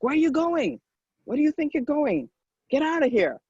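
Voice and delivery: high-pitched mock yell; retold angry challenge. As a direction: imitate an outraged stranger ordering people out. Retold angry stranger ejecting them.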